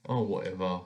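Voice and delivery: soft muttered dismissal; muttering. Acted. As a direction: mutter it under your breath. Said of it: "mutters the king".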